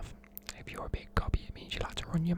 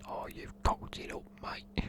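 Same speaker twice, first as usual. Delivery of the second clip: whispered, playful very British accent; hammed-up British accent, kept to a whisper; really British accent; 5 dB quieter, slower than usual. Shown as a demonstration. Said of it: "like a really British accent".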